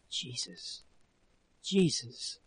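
stunned, hushed oath; whisper. A narrator's reading. Husband staggered by the horrible truth, stunned whisper. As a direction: whisper it in horror. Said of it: "and whispering".

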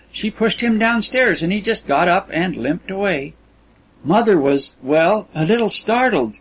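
a hint of an innocent, talkative girl; lilting, lightly acted girl's chatter; girlish Kisman. Narrator voices Kisman's proud story.

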